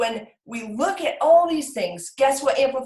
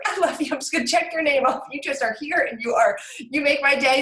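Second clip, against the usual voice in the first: gushing affection; 3 semitones higher than usual. Retold or imitated. Mother checking off her sweet little baby, gushing. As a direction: coo lovingly, pitch lifted.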